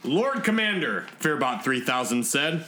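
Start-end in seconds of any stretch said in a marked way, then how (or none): 0.0-1.1 deferential robot. Acted. Robot respectfully addresses the commander.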